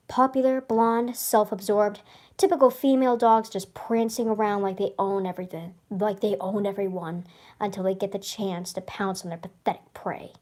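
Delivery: lightly dramatic nature-documentary read; documentary narrator. Acted. Reading her journal story, a mild documentary narrator tone. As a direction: describe them like predators on the prowl. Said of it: "You sound like a narrator for a documentary".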